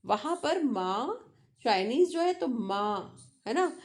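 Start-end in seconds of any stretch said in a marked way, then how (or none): 0.6-1.3 "माँ" held on a level pitch, Mandarin first tone; long, level "माँ"; high flat tone. Shown as a demonstration. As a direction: sustain "माँ" evenly without bending the pitch. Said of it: "flat tone ma means mother".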